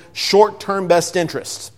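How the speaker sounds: short-term said slow and weighted; stress on short-term. Shown as a demonstration. Preacher to congregation, warning them, short-term slowly emphasized. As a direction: lean hard on short-term, drawing it out. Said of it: "I emphasize the word short-term".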